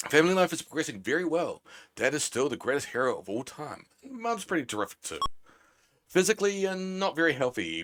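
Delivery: hammed-up game narrator; announcer read. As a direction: read the summary like a game host. Reading game summary in a voice.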